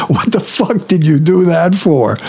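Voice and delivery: high-pitched incredulous imitation of an amused guy; amused disbelief. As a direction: imitate an amused guy's baffled question, pitched right up. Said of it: "the guy starts laughing".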